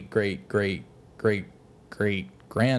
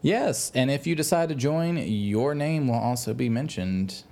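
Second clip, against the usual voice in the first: slick sales pitch voice; used car salesman. Acted. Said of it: "you sound like a used car salesman".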